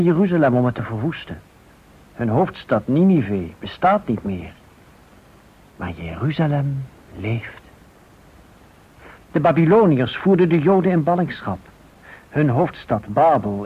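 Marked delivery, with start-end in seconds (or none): none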